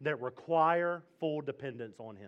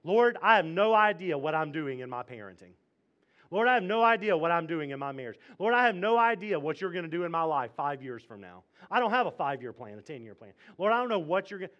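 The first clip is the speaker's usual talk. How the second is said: louder, pleading confession; earnest prayer; 5 dB louder, faster than usual. Pretend. Preacher modelling a helpless prayer, louder and pleading. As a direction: cry out that you have no idea. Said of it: "Try it this week".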